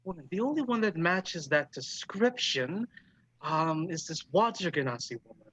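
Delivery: lightly voiced old hostess, slowing at the end; musing elderly dwarf barkeep. Dwarf bartender telling the musician about a regular, musing. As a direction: recall a regular thoughtfully in a put-on voice.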